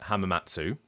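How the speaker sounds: hamamatsu with a clear "tsoo" ending; full final oo. Shown as a demonstration. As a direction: voice the whole last vowel of "hamamatsu". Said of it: "some people are pronouncing it".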